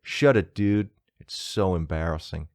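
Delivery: put-on American accent. British host reading out a bad review, mock American accent. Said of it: "Embarrass myself with that accent".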